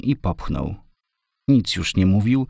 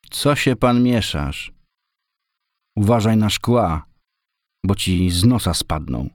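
slow, deliberate challenge at the start; speaking slowly. A narrator's reading. Boy threatening the man who intervened, slowly. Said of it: "rzekł wolno chłopak".

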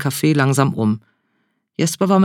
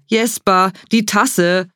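higher, hurried prompt; urgent call; 6 semitones higher, much slower than usual. Acted. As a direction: urge him to hurry. Gertrud hetzt Jesper. (drängend)

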